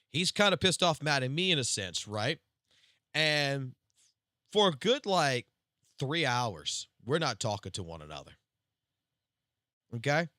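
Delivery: usual speaking voice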